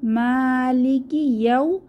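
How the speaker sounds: tajweed reading; Quran recitation. Shown as a demonstration. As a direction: chant it slowly, the long vowel at the end stretched. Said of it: "তাহলে আমরা কিভাবে পড়ব".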